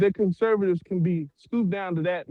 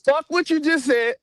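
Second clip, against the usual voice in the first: angry; 3 semitones higher than usual. Real, not acted.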